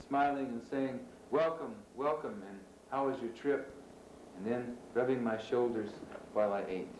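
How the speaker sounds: measured poetry reading with pauses between lines; poem reading. Acted. Poet reading a poem about student poems to an audience, measured recital. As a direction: recite it phrase by phrase, pausing at line breaks.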